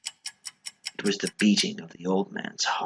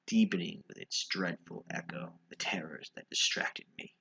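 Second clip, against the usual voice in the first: whisper; 3 semitones lower, 7 dB quieter than usual. A narrator's reading. Narrator's dread whispered aloud.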